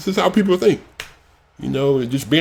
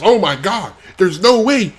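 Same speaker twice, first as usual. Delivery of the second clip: mocking quote; 7 semitones higher than usual. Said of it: "Like, it's".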